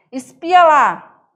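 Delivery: Cuiabá accent Espia lá; cuiabano call. Shown as a demonstration. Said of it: "Termo usado para olha lá".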